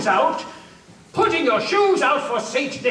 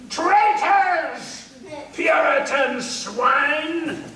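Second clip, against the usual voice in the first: angry shout; much slower than usual. Acted. Soldier shouting at the fled Puritans in anger. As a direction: shout it out in fury at the fled family. Soldier finds house empty.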